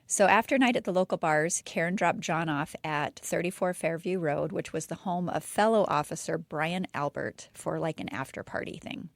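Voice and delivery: lightly dramatic story narration; storytelling voice. Shown as a demonstration. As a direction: tell it like a campfire tale. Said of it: "Get my storytelling voice on".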